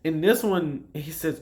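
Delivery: ordinary talk, nothing marked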